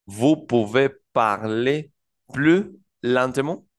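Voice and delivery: slow French "Vous pouvez parler plus lentement?" rising at the end; French question demo. Shown as a demonstration. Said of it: "pero sería una pregunta". (pregunta en francés, lenta)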